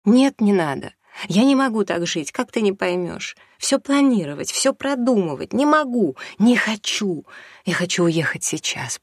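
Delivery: high, loud, near hysteria; hysterical. Acted. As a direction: push it to the edge of hysteria. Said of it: "Мама уже тряслась в истерике".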